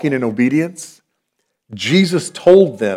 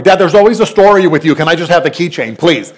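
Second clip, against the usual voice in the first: whiny son; 3 semitones higher than usual. Retold or imitated. Son whining at dad.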